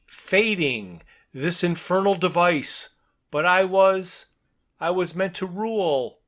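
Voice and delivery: hammed-up fallen tyrant; Neferhotep. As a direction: protest grandly as your power fades. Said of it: "Neferhotep trying to remove the phone from his head".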